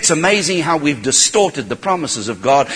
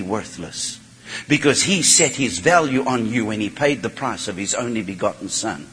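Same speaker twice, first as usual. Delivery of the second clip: softer earnest reassurance; 3 semitones lower, 4 dB quieter than usual. Real, not acted.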